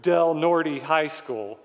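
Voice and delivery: "Norte" ending in an English "tee"; "Norte" anglicized, final e sounded "ee"; gringo pronunciation. Retold or imitated. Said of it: "saying it like gringos".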